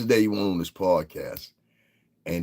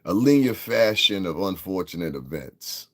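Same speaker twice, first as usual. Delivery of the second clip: deliberate phrasing. Real, not acted. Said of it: "how can I say?".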